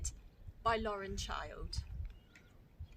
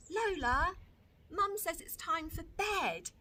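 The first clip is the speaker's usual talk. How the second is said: calling out; 7 semitones higher than usual. Acted. Big brother calling Lola to bed.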